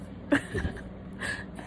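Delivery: short voiceless sob; real crying. Real, not acted. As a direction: choke out a wordless sob. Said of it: "have been of me crying".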